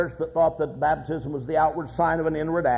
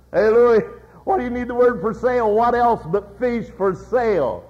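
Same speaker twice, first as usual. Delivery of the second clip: calling out; 4 semitones higher, 5 dB louder than usual. Retold or imitated. A customer hailing Louis about the sign, loud and pointed. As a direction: call across the street to him, then press the point. Another passerby calls out Louis.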